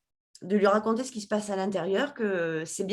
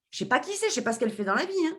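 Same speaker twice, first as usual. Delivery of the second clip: emphatic disbelief; 7 semitones higher, much faster than usual. Retold or imitated. Stressing she knew nothing.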